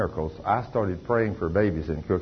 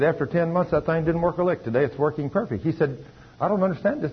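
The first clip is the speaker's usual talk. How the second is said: retold doctor, pitched much higher, astonished; amazed doctor; 9 semitones higher than usual. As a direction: play the baffled doctor reporting the valve. Preacher retells doctor's amazement.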